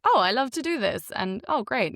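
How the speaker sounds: a touch of mock starry-eyed delight; naive enthusiasm. Actor quoting her younger self, mildly mocked enthusiasm.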